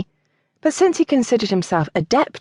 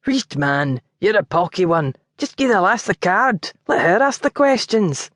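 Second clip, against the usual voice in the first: Geordie in a light Scottish brogue, short-tempered; a lightly voiced Scots lord losing patience. Geordie kept waiting on the doorstep, a light Scottish brogue. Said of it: "dressed in a Scottish brogue".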